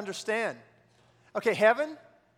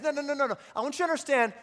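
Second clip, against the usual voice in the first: emphatic quote; 5 semitones higher, 5 dB louder than usual. Retold or imitated. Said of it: "he says".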